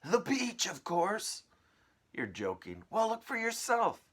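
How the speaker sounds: high, loud, bossy aunt calling; shrill aunt voice. Acted. Aunt calling her sister to the tree, high and loud. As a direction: screech it out like a nasty aunt.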